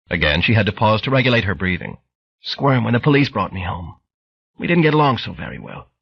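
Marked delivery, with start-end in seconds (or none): 2.4-5.9 lightly voiced frail old lady; old woman voice. Bright Girl voiced.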